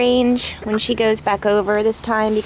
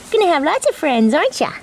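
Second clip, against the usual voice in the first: pet talk; 4 semitones higher, much faster than usual. Real, not acted. Talking to chicken Percy.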